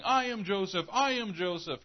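high, loud frantic shout of his name; crazed outburst. Retold or imitated. Joseph snapping at his frightened brothers, shouting. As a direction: snap and yell it like a man gone mad. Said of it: "the guy just snaps and starts going".

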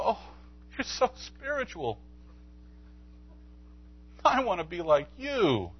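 high, gushing fake praise; mock admiring church member. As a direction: gush like an impressed churchgoer.

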